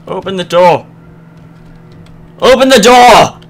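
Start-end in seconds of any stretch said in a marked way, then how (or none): 2.4-3.4 loud, high, slowed yell; frustrated yell. Real, not acted. Gamer yelling at a stuck door in a horror game. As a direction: bellow the order in frustration.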